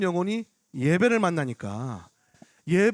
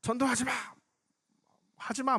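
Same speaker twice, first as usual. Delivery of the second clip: higher, held-back mock shout; retold angry protest; 4 semitones higher, 5 dB quieter than usual. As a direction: imitate an angry heckler at reduced volume. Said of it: "막 그러도 화나더라고요".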